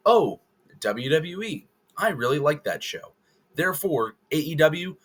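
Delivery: mock fan. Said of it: "where somebody says".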